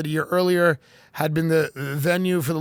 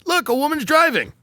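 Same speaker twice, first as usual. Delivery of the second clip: excited pointing announcer, high at the end; hammed-up official showing off a woman driver; mock Saudi official; 4 semitones higher than usual. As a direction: distract the crowd with glee. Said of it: "and they go".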